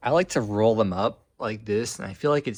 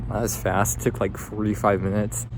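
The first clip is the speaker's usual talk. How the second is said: numb mouth. Real, not acted. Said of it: "it's, like, really weird talking".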